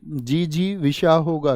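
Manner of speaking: "जी जी विषा" split into parts: jee, jee, visha; syllable by syllable. Shown as a demonstration. Teacher spelling out the word for students, "जी जी विषा" as slow syllables. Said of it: "splitting word into syllables".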